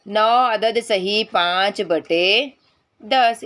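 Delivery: slow dictation. Shown as a demonstration. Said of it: "इस तरह से लिखा जाएगा".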